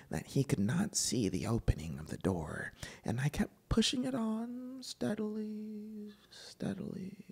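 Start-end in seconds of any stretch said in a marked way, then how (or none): 3.0-7.3 whispered, the repeat fading almost to nothing; hushed whisper. A narrator's reading. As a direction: breathe it out as if afraid to wake him. Stealthy narrator creeping door.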